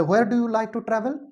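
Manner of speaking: very slow, clearly spaced English question for students; slow model question; slow teaching read. Shown as a demonstration. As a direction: stretch "Where do you like to travel?" out slowly for learners. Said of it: "তাহলে".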